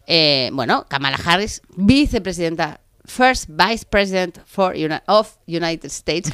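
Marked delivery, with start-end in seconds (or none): 3.0-6.3 slow, careful put-on English accent; over-enunciate it in an English accent. Real, not acted. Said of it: "qué bonito inglés me ha quedado".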